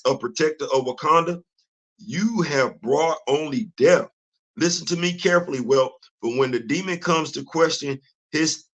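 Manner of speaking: measured, formal reading of comic dialogue; dramatic comic reading. Acted. Reads comic dialogue aloud.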